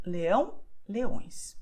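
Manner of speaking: leão and leões with a nasal ão. Shown as a demonstration. Teacher showing a class how the nasal ão in leão sounds. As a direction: let the ão in leão ring through the nose. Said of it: "making a nasal sound".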